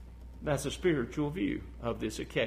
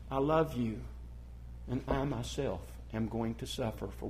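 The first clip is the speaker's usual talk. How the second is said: loving God; 3 semitones lower than usual. Retold or imitated. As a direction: say it gently like a forgiving father. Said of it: "he says".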